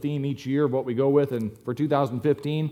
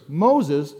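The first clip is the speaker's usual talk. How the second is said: incredulous burglar; 3 semitones higher, 4 dB louder than usual. Acted. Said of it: "Burglar goes".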